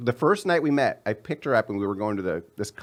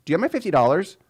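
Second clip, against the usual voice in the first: nagging ex voice; 7 semitones higher, 5 dB louder, faster than usual. Retold or imitated. Ex calling again.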